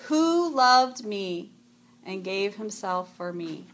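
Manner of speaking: measured, reverent verse recital; scripture recitation. Acted. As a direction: recite it like a memorized Bible verse. Recites Galatians verse from memory.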